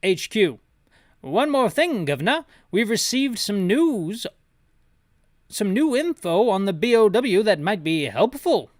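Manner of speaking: a British HQ officer reporting new info. Acted. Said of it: "Gotta get my British voice back up".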